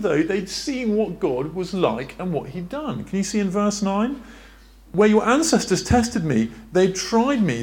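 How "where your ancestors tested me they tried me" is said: higher and louder, pressing each word; emphatic preaching. Shown as a demonstration. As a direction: preach it out so it lands hard. Rereading the verse with force.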